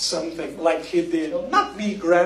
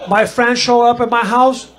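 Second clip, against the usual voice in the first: punchy buildup; 6 semitones higher, 5 dB louder than usual. Real, not acted.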